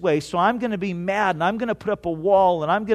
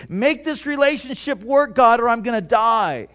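pleading prayer; 4 semitones higher, 4 dB louder than usual. Pretend. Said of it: "We can pray".

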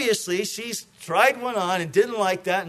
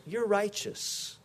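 judge declaring; 9 dB quieter, slower than usual. Retold or imitated. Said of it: "and he declares".

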